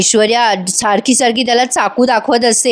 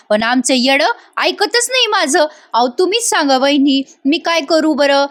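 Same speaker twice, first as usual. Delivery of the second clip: rustic gossiping wife; 2 semitones higher than usual. Acted. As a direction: pour out complaints to win her favour.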